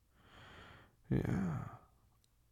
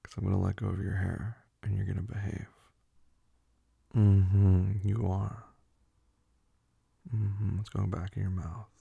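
firm command; 7 dB louder than usual. Acted. Laying down rules to partner.

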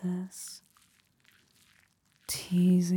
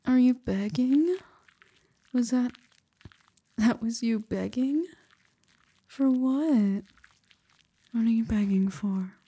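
teasing; 4 semitones higher, 5 dB louder than usual. Acted. Teasing the listener's begging.

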